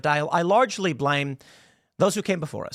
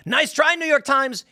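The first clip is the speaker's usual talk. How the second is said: sarcastic; 7 semitones higher, 3 dB louder than usual. Real, not acted. Sarcastic jab at newspaper.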